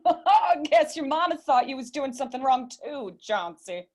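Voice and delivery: teasing through a laugh; laughing tease. Acted. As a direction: laugh at him while you tease. Teasing Johns caught by his mama.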